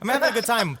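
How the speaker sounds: lightly voiced cartoon skeleton; chirpy skeleton bit. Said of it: "this is my skeleton voice".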